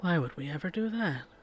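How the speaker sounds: mock faintly sarcastic tone. Acting out a reply about attacking unprovoked: imitating an almost sarcastic voice. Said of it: "it says with a almost sarcastic voice".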